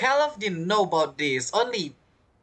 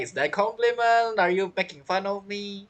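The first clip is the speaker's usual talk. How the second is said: a light mock Paimon voice, slightly raised; imitating Paimon; 3 semitones higher than usual. Streamer mimicking Paimon's cheeky reply, light mock voice. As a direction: play Paimon teasing back, only lightly voiced. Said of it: "Paimon smiles like".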